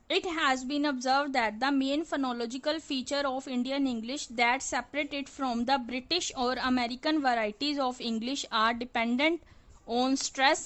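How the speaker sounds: reads each English phrase out slowly and deliberately; measured, word-by-word reading from the book; slow textbook reading. Acted. Teacher reading the English passage to students, slow and deliberate.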